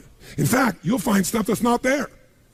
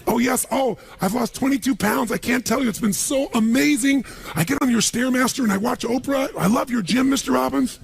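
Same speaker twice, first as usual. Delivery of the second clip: lightly voiced gushing maid, higher; maid's voice; 6 semitones higher than usual. Speaker imitates his maid thanking him, mild gushing voice. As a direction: gush like a grateful maid, a bit higher. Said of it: "she's back at home in the castle going".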